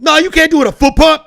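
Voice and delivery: high, loud, insistent shout; loud mock clerk; aggressive clerk. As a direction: bark it back like a pushy clerk. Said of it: "he was at me with this energy".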